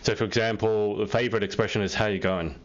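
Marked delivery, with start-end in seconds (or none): 1.9-2.5 lazy, low "How you going?", run together; Aussie "How you going?" with a still mouth; lips barely moving. Shown as a demonstration. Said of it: "you must not move your lips".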